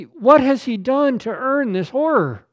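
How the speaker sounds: anguished pulpit shout; loud cry. Real, not acted. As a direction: cry the question out. Question first cried aloud.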